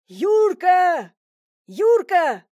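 loud, high shout of a name; calling out. Acted. Husband pounding the neighbour's door, shouting. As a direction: yell for the neighbour through the door.

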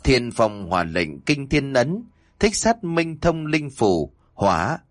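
slow ritual chant with stretched phrases; incantation. A narrator's reading. Thầy Chín reciting a spell over a talisman, slow incantation. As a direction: intone the spell in measured, drawn-out phrases. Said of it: "miệng liên tục đọc".

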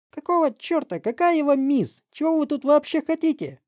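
high, loud indignant screech; shrieking mother. Acted. Mother shrieking at the detective. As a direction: shriek at the cop.

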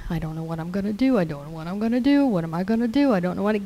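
fast, worried mumble; mock fretful muttering about not knowing what to do; anxious muttering. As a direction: rush through it like a fretting worrier. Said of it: "If you're muttering".

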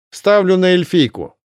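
loud high call; shouted bet. Acted. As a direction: yell it after her. Man shouts bet after runner.

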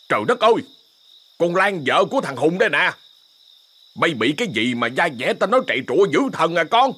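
shocked exclamation. Acted. Neighbour finds Lan at night.

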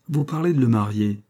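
put-on mildly indignant little girl, half playful; a child's mock outrage, lightly voiced; comic indignation. Little Jessie protesting to her mother, with mild comic indignation. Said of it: "avec une comique indignation".

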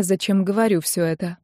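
plain reading voice

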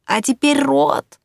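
high, slow muffled voice; muffled gurgle. Acted. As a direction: speak as if wrapped in plastic. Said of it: "едва различимо пробулькало внутри".

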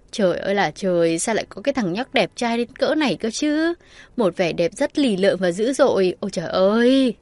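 swooning gush. Acted. Bo swoons over Devin.

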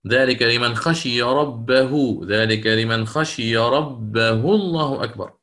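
slow tajwid chant of the verse ending; slow Quranic recitation. Shown as a demonstration. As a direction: recite ذلك لمن خشي ربه الله أكبر slowly, chanted. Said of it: "recites verse as example". (ترتيل بطيء للآية مع التكبير)

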